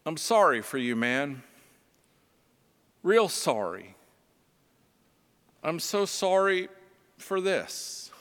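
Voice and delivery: warm sympathy. Retold or imitated. Stranger consoling the homeless man on the stairs, warm and gentle. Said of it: "with warmth in his voice".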